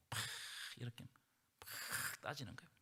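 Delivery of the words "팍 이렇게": usual speaking voice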